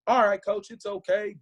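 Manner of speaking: retold line, voice pushed up high; high-pitched imitation. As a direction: mimic an agitated coach's pitch jump. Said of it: "voice got high pitched".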